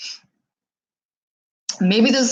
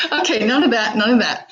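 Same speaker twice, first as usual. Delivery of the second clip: pulling herself together; 4 semitones higher, faster than usual. Real, not acted. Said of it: "now I'm gonna get all emotional".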